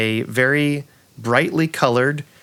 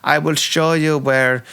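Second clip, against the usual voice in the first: campy drag queen; 4 semitones higher than usual. Acted. NPC keeps talking.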